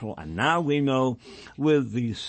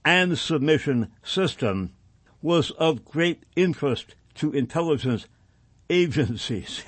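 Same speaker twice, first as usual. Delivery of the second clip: deliberate reading in measured phrases; formal document read-aloud; 4 semitones higher than usual. Acted. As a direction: read the report out firmly, phrase by phrase. Reads passage aloud on air.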